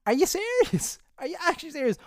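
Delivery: high, disbelieving outburst; incredulous. Retold or imitated. Doctor walks away from fainting man.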